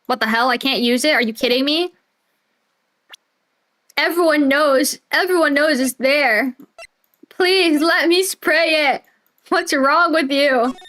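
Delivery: high, slow exasperated begging; whiny frustrated pleading. Real, not acted. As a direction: plead with the game, pitch rising. Begs the game to allow spraying.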